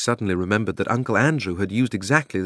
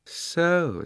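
musing queen; 10 semitones higher than usual. A narrator's reading. Queen voiced.

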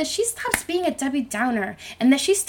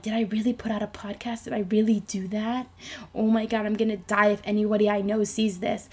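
anxious self-doubt; 3 semitones lower, 6 dB quieter than usual. Retold or imitated. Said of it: "I was like".

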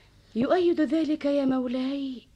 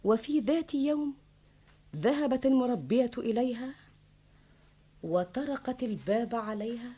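storyteller narration over music; arabic grandma folk tale. A narrator's reading. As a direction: tell it like an old fable.

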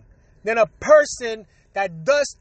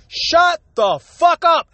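slow, drawn-out shout, higher pitched; angry retort; 4 semitones higher, slower than usual. Real, not acted. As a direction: shut them up with a slow shout. Ranting at braggers.

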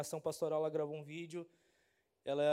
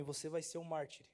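softer, hushed divine words; God's quiet voice; 2 semitones lower, 6 dB quieter than usual. Retold or imitated. Pastor recalling God's quiet voice while kneeling. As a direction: lay it down gently like a calling. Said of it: "Deus começou a falar pra mim".

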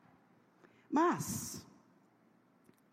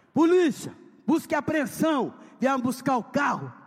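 loud shouting announcement; police shout; 5 semitones higher, 7 dB louder than usual. Retold or imitated. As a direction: bark it through the door. (polícia gritando na porta)

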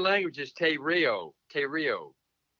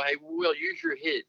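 higher-pitched New Zealand accent, "head" said like "hid". Shown as a demonstration. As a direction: call it out high in a Kiwi accent. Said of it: "an accent of a New Zealand trying to say".

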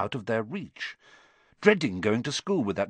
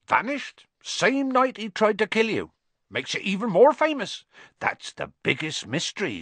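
big friendly giant, confiding and gruff; Hagrid giant voice. Acted. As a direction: tell the boy the story like a rough old friend.

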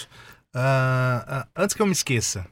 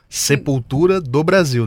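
stage announcer call; slower than usual. Retold or imitated. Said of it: "sempre começa o show falando".

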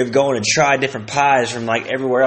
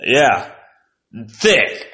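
laughing logger; much slower than usual. Retold or imitated. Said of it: "a guy logging logs would be like".

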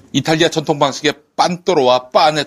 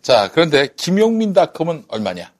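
high, loud price announcement; hard sell price reveal; 8 semitones higher, 4 dB louder than usual. Acted. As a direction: build up and shout the price.

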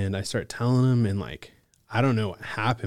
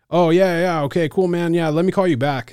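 high, loud, hurried brush-off; breezy brush-off; 8 semitones higher, 7 dB louder than usual. Retold or imitated. James brushing off the caller, high and loud. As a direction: toss off a quick "call you back". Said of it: "And he was like".

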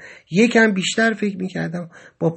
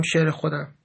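quietly, a little softer; softly; 3 semitones lower, 6 dB quieter than usual. A narrator's reading. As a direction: answer softly, almost to yourself. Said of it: "آهسته گفتم". (آهسته و آرام)

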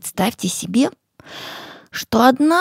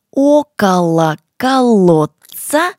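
slow, loud, every syllable clear; to someone hard of hearing; 5 dB louder, slower than usual. Shown as a demonstration. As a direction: say it slowly so they follow. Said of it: "И ещё раз также".

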